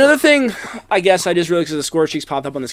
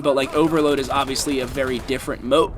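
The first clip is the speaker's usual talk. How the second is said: talking through hiccups; hiccuping between words. Real, not acted. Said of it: "I have the hiccups right now".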